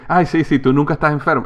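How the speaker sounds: teasing, sarcastic sing-song; mock his claim like a doubtful friend. Imitating friends who tease him, sarcastic. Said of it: "tengo amigos que se burlan de mí".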